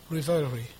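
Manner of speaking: tentative "Revelry" with a long ee in "Re"; struggling pronunciation. Real, not acted. Preacher asks congregation for help with a word, struggling pronunciation of "Revelry". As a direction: sound out "Revelry" as ree-VEL-ree, unsure. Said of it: "I've struggled to pronounce this word".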